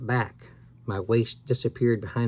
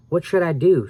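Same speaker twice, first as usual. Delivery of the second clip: louder, higher panicked scream; Sam screamed; 5 semitones higher, 5 dB louder than usual. A narrator's reading. Sam screams to Al in panic: loud terrified cry. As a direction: shout for help in terror. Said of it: "Sam screamed".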